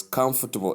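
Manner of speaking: COMFORTABLE as KUMF-tuh-bul; "comfortable" stressed first, middle reduced; correct pronunciation. Shown as a demonstration. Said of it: "That's how you pronounce".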